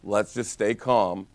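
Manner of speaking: slow, even and soothing; unhurried, reassuring coach; calm. Shown as a demonstration. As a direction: settle the room down slowly. Coach modelling staying calm.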